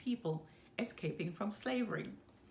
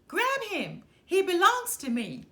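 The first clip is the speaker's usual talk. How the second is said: much higher and louder, yelling orders; furious shout; 10 semitones higher, 9 dB louder than usual. Acted. Enraged supervisor yelling at the fleeing enslaved man, a furious shout. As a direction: bellow it like an enraged overseer claiming a runaway.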